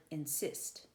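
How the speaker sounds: in-SIST, weight on the second syllable of insist; iambic stress. Shown as a demonstration. Teacher demonstrating an iamb to students, insist stressed on "sist". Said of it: "an unstressed and a stressed".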